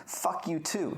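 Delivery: retold angry outburst at normal volume; losing it. Customer turning on the patronizing pharmacist, losing it in a retold rant. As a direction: fire off indignant accusations without shouting. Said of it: "She loses it and says".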